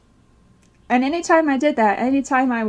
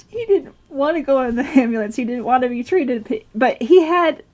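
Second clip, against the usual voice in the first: real laughs breaking into the telling; rueful laughter between phrases; laughing. Real, not acted. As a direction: laugh helplessly while recounting something horrible. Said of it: "I'm laughing because it sounds horrible".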